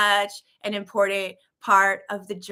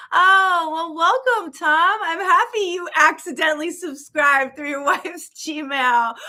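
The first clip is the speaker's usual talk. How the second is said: much higher, louder gleeful welcome with a laugh; excited welcome; 7 semitones higher, 4 dB louder than usual. Real, not acted. Host welcoming Tom who subscribed by accident, gleeful and high. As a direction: beam as you welcome him in.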